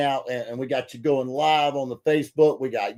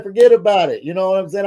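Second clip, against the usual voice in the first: mock New York accent; 5 semitones higher, 6 dB louder, faster than usual. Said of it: "you're gonna have me talking like that".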